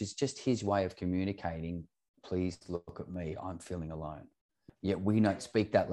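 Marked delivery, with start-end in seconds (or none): 2.2-4.3 soft plea. Retold or imitated. Child's unspoken plea voiced.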